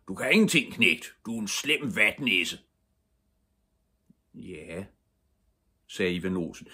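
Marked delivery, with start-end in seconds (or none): 0.1-2.6 loud, raised-pitch scolding; shouting father. A narrator's reading. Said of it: "råbte hans far". 4.3-4.9 soft, small reply; meek son. A narrator's reading. Cowed son answers shouting father.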